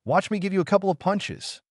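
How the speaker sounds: high, far-off gritted threat; through gritted teeth. Acted. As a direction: spit it out through clenched teeth. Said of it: "She grits her teeth and says".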